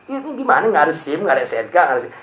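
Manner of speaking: lightly voiced cop demanding papers; stern cop. Police officer questioning the rider, mildly stern.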